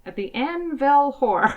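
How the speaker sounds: Amityville squashed into Anvil; botched title. Real, not acted. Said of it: "That is correct".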